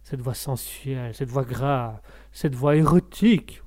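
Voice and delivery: low, slow seductive murmur; breathy bedroom voice, drawn out; sensual voice. Shown as a demonstration. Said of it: "je veux faire toute une émission avec cette voix-là".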